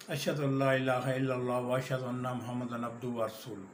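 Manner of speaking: quick run-on Arabic with little care; rushed tashahhud; fast recitation. Shown as a demonstration. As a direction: rattle it off fast. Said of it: "وہ بھی تیز تیز پڑھتے ہیں۔".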